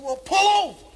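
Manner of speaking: high, loud exasperated call; hammed-up high captain; put-on Chris voice. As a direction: tell them like a fed-up driver. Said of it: "Chris said".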